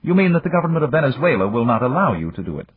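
Japanese magnate. Acted. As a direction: voice the older businessman, courteous and calm. Yamagata speaks.

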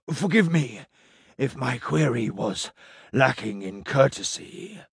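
a small, odd creature asking politely; small hooded alien. A narrator's reading. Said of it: "the small hooded person said".

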